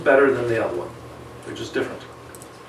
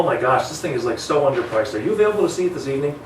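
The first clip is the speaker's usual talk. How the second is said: urgent pitch. Shown as a demonstration. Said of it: "create some urgency".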